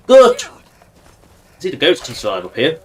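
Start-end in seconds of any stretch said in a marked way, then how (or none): 0.1-0.4 high squeak. Pretend. Sudden high exclamation.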